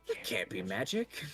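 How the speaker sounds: Liz. Acted. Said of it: "she's just like".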